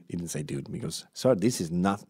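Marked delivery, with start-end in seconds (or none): 1.1-2.0 lightly put-on Mexican accent; botched try at a Mexican accent. Doctor answering a wart patient, faint Mexican accent. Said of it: "I'm doing a Mexican accent".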